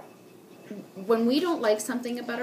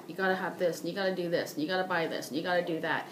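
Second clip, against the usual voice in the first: lower-pitched, repetitive sales list; mock pushy seller; 4 semitones lower, faster than usual. Mocking a seller pushing women to buy, insistent. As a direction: reel off demands as a pushy seller.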